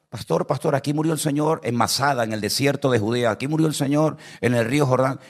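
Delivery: high, insistent churchgoer voice; odd sister again. Retold or imitated. Pastor imitates the sister repeating her question, high and insistent. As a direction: keep pestering the pastor at every stop.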